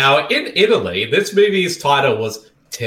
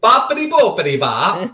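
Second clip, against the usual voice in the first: laughing mock Italian; 4 semitones higher than usual. Shown as a demonstration. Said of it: "You got to speak like this".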